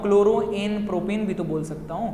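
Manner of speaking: teacher re-voicing the pupil, toned down; student's question repeated. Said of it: "एक doubt और आ सकता है आप लोगों को बच्चों".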